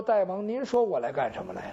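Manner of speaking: bowed courtier coaxing the king with a quiet question; meek minister. Acted. The kneeling minister to the armed king: soft humble question.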